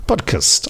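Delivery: "Podcast" with the last vowel reduced, "pod-cust"; "Podcast" said as "PODcust"; de-emphasised vowel. Shown as a demonstration. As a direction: clip "cast" in "Podcast" down to "kust". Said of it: "I'm de-emphasising the R in podcast".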